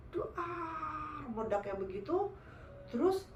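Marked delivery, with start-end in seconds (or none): 0.1-1.2 higher, softer drawn-out boom; imitated explosion. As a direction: voice a trailing blast noise. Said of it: "Meledak, guys".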